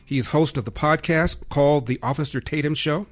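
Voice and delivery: radio host's big welcome; show host introduction. Real, not acted. Host's formal guest introduction.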